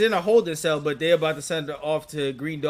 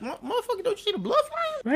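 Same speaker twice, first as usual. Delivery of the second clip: mock yell; faster than usual. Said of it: "Why you yelling? Why you screaming?".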